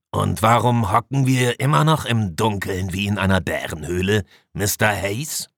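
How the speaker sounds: lightly voiced demanding commander; a hint of irritation, pressing for an answer; impatient commander. Commander challenges his engineer about the darkness, mildly impatient.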